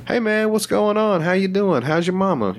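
high-pitched, breezy small talk; chummy greeting. Acted. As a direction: greet a passing acquaintance like a buddy. Acting out greetings to strangers.

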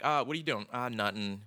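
"doing" and "nothing" said as doin' and nuthin'; dropped final G. Retold or imitated. Quoting someone he dated, G dropped from "doing" and "nothing". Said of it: "dropping the G off of the end of the words".

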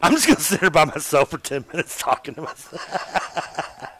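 giggly sneering imp. Acted. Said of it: "the Bobby voice".

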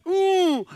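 high, drawn-out disapproving ooh; mock-scandalized ooh from a crowd; imitated shocked "ooh". Preacher acting out shocked disciples, drawn-out high ooh. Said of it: "Reason why the disciples went".

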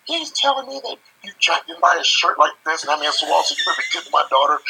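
high-pitched imitation of an indignant daughter; upset daughter. Teller voices upset daughter confronting him.

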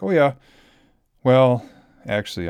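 imitating son. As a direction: pitch it up like a nervous young boy owning up.

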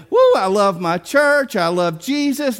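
imitating an enthusiastic believer with a loud woo; hammed-up church cheerleading; mock gushing. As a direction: gush it, lightly mocking. Mimicking gushing believers who love church.

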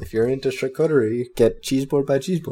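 mock French accent, lightly done. Pitching cheese boards in a playful French accent. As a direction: put on a hint of French. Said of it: "Your French accent is good".

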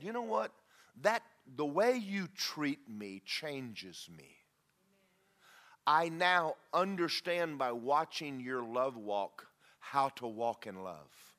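slow, heartfelt thanks to someone you admire; slow, earnest tribute; sincere, slow. Retold or imitated. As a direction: speak it like a confession of gratitude. Sincere words to the respected person.

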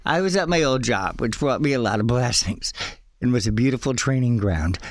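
a little winded from excitement; out of breath. Real, not acted. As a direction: talk while short of breath. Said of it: "I'm getting so out of breath".

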